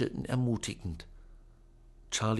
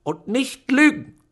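very high, loud, slow warning; threatening; 14 semitones higher, 12 dB louder than usual. A narrator's reading. Aunt warning Charlie not to lie, threatening. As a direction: menace him with every word. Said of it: "drohte Tante Lucretia".

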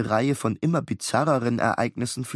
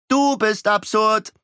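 put-on higher, slower taunting boy; cheeky retort; 10 semitones higher, 5 dB louder, slower than usual. Beckett retorting to Miles, slow cheeky taunt. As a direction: throw it back at him.

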